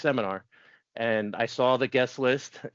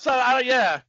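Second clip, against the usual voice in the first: laughing; 12 semitones higher, 6 dB louder, slower than usual. Real, not acted. Still laughing at own age.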